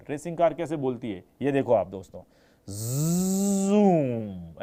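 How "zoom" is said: zoom drawn out and swept like a passing car; racing car zoom. Shown as a demonstration. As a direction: let zoom rush past like a racing car. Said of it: "ऐसे निकलती है". (Racing car की तरह खिंचा हुआ ज़ूम)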